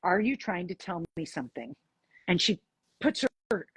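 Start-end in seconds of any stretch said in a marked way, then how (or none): 0.0-1.7 low, even, unemotional question; matter-of-fact. Retold or imitated. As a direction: ask it straight, without coaxing. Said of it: "matter of fact".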